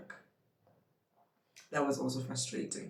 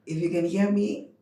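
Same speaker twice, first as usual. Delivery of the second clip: louder, pushing past a sore throat; pushing through; 10 dB louder than usual. Real, not acted. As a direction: force the words out loud. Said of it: "whether my voice agrees or not".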